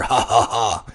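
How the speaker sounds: pirate laugh. Acted. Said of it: "threw back his head in laughter".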